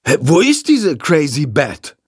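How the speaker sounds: put-on casual, puzzled boy voice; puzzled teen. A narrator's reading. The boy hunting for the bat, puzzled and casual. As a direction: search around, baffled.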